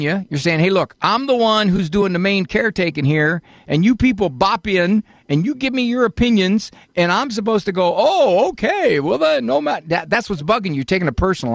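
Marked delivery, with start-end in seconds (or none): 0.6-7.9 mock complaint. Host voices caller's inner complaint. 8.0-9.8 much higher, sing-song mock compliance; mock forced agreement.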